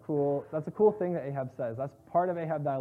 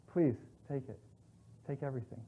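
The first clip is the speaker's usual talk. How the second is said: cowardly plea; 3 semitones lower, 7 dB quieter than usual. Retold or imitated. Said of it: "he's a coward".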